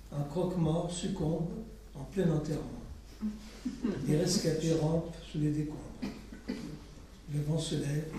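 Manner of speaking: poetry reading. Acted. Poet reading a poem of catastrophe to listeners, measured recital. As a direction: weigh each catastrophe calmly.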